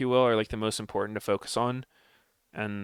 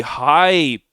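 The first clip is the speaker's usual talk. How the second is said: hyped shout; 6 semitones higher, 12 dB louder than usual. Real, not acted. Hyped reaction to pick.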